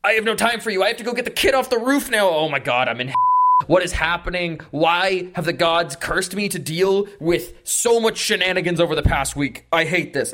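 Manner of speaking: overwhelmed elf venting in a mild panic; panicked rant. Acted. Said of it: "stops having a panic attack".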